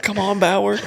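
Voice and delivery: hollering at a rival, amused; laughing call. Retold or imitated. Riders teasing Bauer from trackside, laughing.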